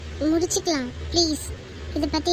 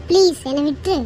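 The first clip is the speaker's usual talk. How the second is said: louder, fed-up snap; angry; 6 dB louder than usual. Acted. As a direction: push him away in anger. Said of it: "கோவப்படாத".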